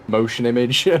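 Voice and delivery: "Motion image?" echoed back, questioning and amused; puzzled at own words. Shown as a demonstration. Streamer mocking own old-timey wording, amused and questioning.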